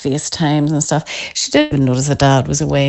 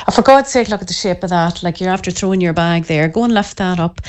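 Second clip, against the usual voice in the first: sharp exasperated outburst, then muttered nagging; nagging a kid who dumped his bag; exasperated parent microaggression. Retold or imitated. Mum nags son over school bag, exasperated outburst. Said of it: "with microaggression".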